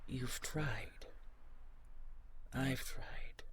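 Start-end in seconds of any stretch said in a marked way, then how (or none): 2.5-3.4 whispered admission. Acted. Admitting failed healing.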